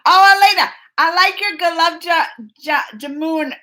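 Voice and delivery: happy surprise. Real, not acted. Spotting a viewer's name.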